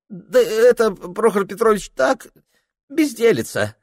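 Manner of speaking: put-on high, fussy voice of a drunk clerk dodging; flustered young clerk. Ilya evading Prokhor. (высокий суетливый голос смущённого приказчика)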